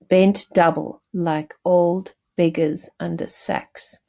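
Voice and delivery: put-on "bent double like old beggars under sacks" measured out in short groups with pauses; iambic pentameter demo. Shown as a demonstration. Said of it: "That is iambic pentameter".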